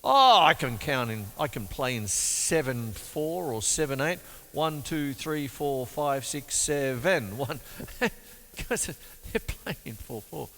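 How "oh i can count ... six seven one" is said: mock confident player. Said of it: "So some people go".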